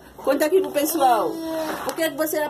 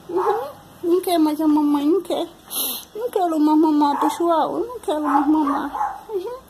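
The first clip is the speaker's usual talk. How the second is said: put-on baby talk; 4 semitones higher than usual. Mother baby-talking to her baby.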